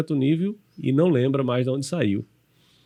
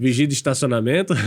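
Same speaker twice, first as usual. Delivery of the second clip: amused. Real, not acted. Amused echo of friend's old job.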